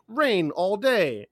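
high, slow assistant voice; Google Home. Retold or imitated. Google Home answering the morning weather question, high put-on voice. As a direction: draw out the forecast, pitched high. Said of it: "And then she'll be like".

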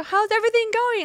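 high, chirpy imitation of a friend; singsong friendly inquiry, quoted; friend's casual check-in. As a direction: pitch it up for a breezy catch-up question.

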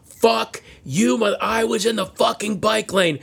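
high-pitched mock yell of protest; retold scream. Moped rider at the stuck car, mock screaming. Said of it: "starts screaming at the guy again".

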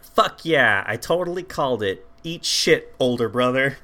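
lightly hammed-up gloating outburst; punchy, imitating an excited little sister; mock freak-out. Sister crowing at her older brother, mock freak-out. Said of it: "like, freaking out".

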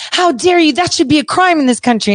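high-pitched, offended retort, acted out; mock indignation. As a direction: imitate someone taking huge offence. Voices the offended person quarrelling.

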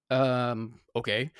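hesitant, questioning okay; wary okay. Retold or imitated. Star answering a stranger's request, wary. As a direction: agree warily, with a questioning lift. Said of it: "Was he weird about it like that?".

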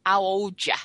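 Essex accent. Shown as a demonstration. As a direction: Essex accent, words slurred together. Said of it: "They don't say their H's".

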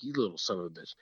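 muttered curse. Retold or imitated. Hunting, annoyed at the squirrel.

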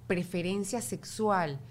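"Preferencia sexual" said slowly, each word weighed; slow, careful. Shown as a demonstration. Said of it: "qué dialecto uso". (despacio y con cuidado, "Preferencia sexual")

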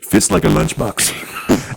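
slow, lightly voiced Bill Murray; Bill Murray impression. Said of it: "Now I was getting into Bill Murray".

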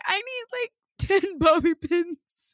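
high, laughing overwhelmed quote; squeaky laughing disbelief; laughing exasperation. Retold or imitated. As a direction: laugh through the frustration of it.

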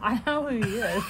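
talking while eating a cherry; words round a cherry in the mouth; mouth full. Real, not acted. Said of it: "Kim's eating a cherry while she speaks".

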